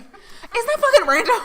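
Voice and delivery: slow, high and laughing; high giggle at the coincidence. Real, not acted. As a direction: laugh through the disbelief. Amazed at shared birthday.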